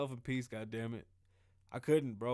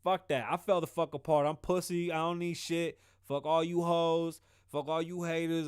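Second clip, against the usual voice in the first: emphatic outburst; 4 dB louder than usual. Real, not acted. Confessing he fell apart.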